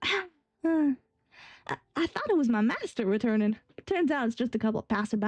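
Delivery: put-on loose Southern-sounding Texan accent; attempted Texan. Young guard hoping his master had returned, rough Texan accent. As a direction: try a Texan twang, sliding into general Southern. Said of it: "That's just Southern".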